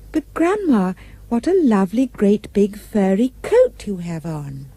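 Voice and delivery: a curious child, lightly voiced; little girl gently wondering; innocent little girl. Girl speaking to wolf.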